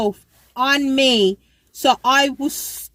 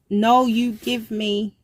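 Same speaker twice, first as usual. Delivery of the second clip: imitating him; slower than usual. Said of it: "like that".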